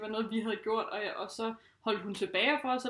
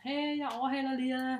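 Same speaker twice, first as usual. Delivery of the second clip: sweet, friendly call-out; 2 semitones higher than usual. Retold or imitated. Cyclist warning others before passing, sweet and friendly. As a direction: call it out nicely, like a polite heads-up. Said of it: "rigtig sød og sådan".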